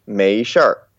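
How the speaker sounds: 没事儿 with a Beijing r-colored ending; Beijing accent. Shown as a demonstration. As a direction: curl the end of 没事儿, Beijing style. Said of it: "Beijing accent".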